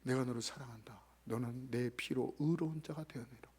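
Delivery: low, soft and tender; Jesus comforting the hurt boy, tenderly. Retold or imitated. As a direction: speak love gently like Jesus to a child. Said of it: "거룩하신 예수님께서요".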